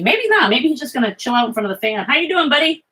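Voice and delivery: high, sing-song pet voice; talking to the dog. Real, not acted. Streamer greeting her dog by the fan, high doting pet talk.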